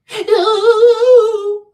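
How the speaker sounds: sharp high gasp, loud and sudden; mock gasp. Vlogger gasps at men who cry at the altar, scandalized gasp.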